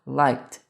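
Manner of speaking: "liked" ending in a T; final T sound. Shown as a demonstration. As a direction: say "liked" slowly, with a T straight after the K. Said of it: "com o T também".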